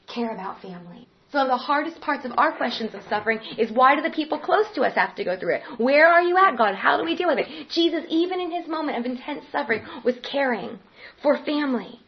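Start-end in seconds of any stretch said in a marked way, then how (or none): 5.8-7.7 louder and higher, crying out; an anguished plea thrown at heaven; anguished cry to God. Acted. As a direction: call out the question to God in anguish. Crying out the hard question.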